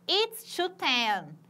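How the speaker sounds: slow, careful model time; slow demo. Shown as a demonstration. Teacher modeling American time telling, slow and clear. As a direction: say it slowly for the class. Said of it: "no inglês americano".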